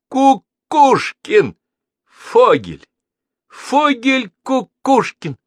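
high, loud, slow triumphant calls; jumping with childlike glee, shouting the names; excited cries. A narrator's reading. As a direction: cry out each name in delight.

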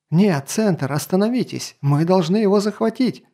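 high, urgent pleading; desperate protest. Acted. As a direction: protest while being dragged. Lady struggling, protesting being dragged.

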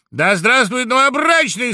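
high, loud triumphant cry; loud cheer. Acted. Woodpecker loudly cheers the groom. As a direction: hail the groom at full voice. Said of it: "закричал дятел громко".

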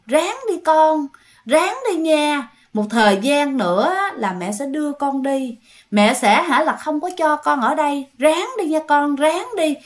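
lightly voiced tender ghost mother; gentle ghost mother. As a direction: coax him gently like a loving mother. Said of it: "nói nhẹ nhàng".

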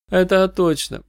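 high-pitched agreeing blonde; catty blonde singer. A narrator's reading. Blonde backs up her fellow singer's complaint, catty.

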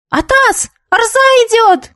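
high, urgent lookout cry; warning shout. A narrator's reading. Kid shouting that the teacher is coming. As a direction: yell the warning to scatter everyone. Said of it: "крикнул кто-то".

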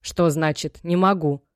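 a gentle mother turning stern; sharp. Acted. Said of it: "жёстко сказала". (мать жёстко переспрашивает дочь)

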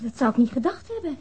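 ordinary talk

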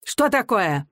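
чуть выше, удивлённо-раздражённо; старик возмущён и поражён; раздражённое изумление. A narrator's reading. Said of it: "раздражённо, с изумлением вскричал старик". (старик раздражённо изумляется)

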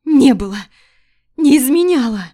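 wife denying through tears; voice breaking. Acted. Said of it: "Голос срывается".

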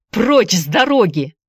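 a forceful mild shout; Andy shouts at workers blocking the vat. Acted. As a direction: order them aside. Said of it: "закричал он".

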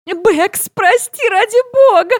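high squealing apology. Retold or imitated. Suze squealing an apology up to Becky. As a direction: squeal out a frantic sorry. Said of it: "верещит Сьюзи".

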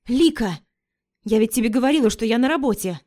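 loud exasperated exclamation; exclaiming. Acted. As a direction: call out her name in frustration. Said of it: "воскликнула я". (громкое возмущённое восклицание)

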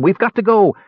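high-pitched, hurried, mildly breathless; panting. A narrator's reading. Tass dragging Caramon to the door, lightly panting. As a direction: hustle out with a touch of panting. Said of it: "he panted".

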